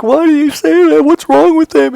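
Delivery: very high, loud, near-tearful wail; a hurt child on the verge of tears; crying kid. Retold or imitated. Young Michael upset about his new shoes, high tearful wail. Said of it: "And I'm like".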